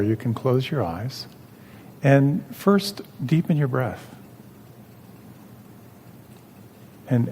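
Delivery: calm, measured instruction with long pauses; guided meditation. Real, not acted. Leads mindful movement practice.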